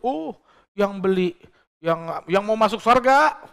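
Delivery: mocking a preacher who sells heaven with his rice; mock food vendor.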